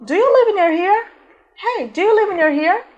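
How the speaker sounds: "Do you live near here" high, rising at "here"; high-pitched demonstration question, "here" going up; question intonation. Shown as a demonstration. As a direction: ask it conversationally, lifting "here". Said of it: "na conversa você faz a entonação".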